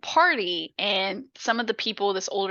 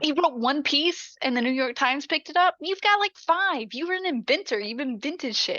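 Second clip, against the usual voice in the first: higher-pitched, insistent mock indignation; indignant pep talk; 5 semitones higher than usual. Mom comparing daughter to rival son, indignant pep talk. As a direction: imitate a mom hyping up her kid. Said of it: "like, this pep talk".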